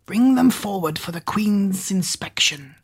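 high, hushed servant order. Acted. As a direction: order in Googe's voice. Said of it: "Googe ordered".

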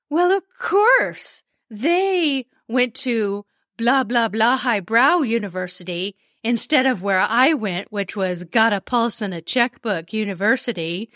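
hammed-up whiny sobbing; fake crying. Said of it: "Oh, I love dramatizing these".

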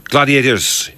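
light mock-Scottish referee call; Scottish accent. Imitating the Gladiators referee for the co-host, Scottish accent. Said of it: "can you do a Scottish accent?".

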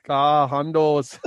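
put-on slow drawn-out Italian-Canadian bro accent; mock Italian-Canadian accent. Teasing a friend about his Italian-Canadian family slang, slow mock accent. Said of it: "Where are you getting this accent from?".

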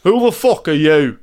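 rough London bloke voice, barely put on; London geezer accent. Dead granddad confronting grandson, light London accent. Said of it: "why are you speaking like that, Grandad".

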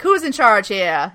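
slow, lightly imitated old-timey voice; hint at an old-timey official taking charge. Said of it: "like, old-timey voice kind of sound".

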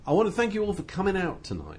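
lightly imitated rock star thanking a crowd; impression of a rock singer. Imitating the singer thanking his audience, light impression. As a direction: quote it in the singer's particular way, lightly put on. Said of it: "he says it in a very particular way".

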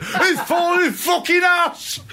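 drawn-out, very high Lancashire shout; Davey Boy Smith. Retold or imitated. Co-host mimics wrestler for laughs, high Lancashire-accented shout. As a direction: yell it slowly in a broad Lancashire accent. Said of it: "in his Lancashire accent".

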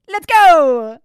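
high, very loud cheer; rallying shout. Pretend. Host rallying back to the episode, rallying shout. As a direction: shout it like a hype call.

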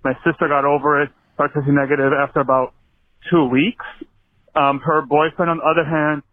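breathless from running; talking while running for breath. Real, not acted. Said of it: "so I'm out of breath".

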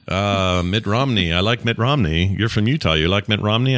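lightly imitated Turkish accent. Husband retelling a Turkish bellhop's chat, light Turkish accent. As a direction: slip into a hint of a Turkish accent. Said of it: "I'm not gonna try to do his accent".

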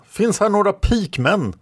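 very high, urgent cry; shouted call. A narrator's reading. Someone searches for pikemen in battle, high shouted call. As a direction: shout the question across the ranks. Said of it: "skrek någon annan".

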